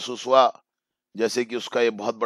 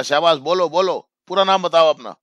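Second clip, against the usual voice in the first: put-on higher and louder, cheering the child on; encouraging; 6 semitones higher, 7 dB louder than usual. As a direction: urge a shy child to keep going. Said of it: "teacher ने इस प्रकार से जब उसको encourage किया". (उत्साह बढ़ाते हुए, ऊँची और तेज़ आवाज़ में)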